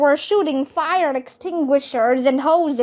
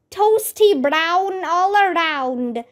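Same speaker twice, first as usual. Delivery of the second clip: shouted; 4 semitones higher than usual. Acted. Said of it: "I shouted".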